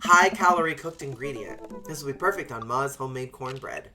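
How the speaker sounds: hammed-up pioneer farmer narration; mock homesteader. Narrating the butter churn dance as a homesteader. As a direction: play the earnest farm hand.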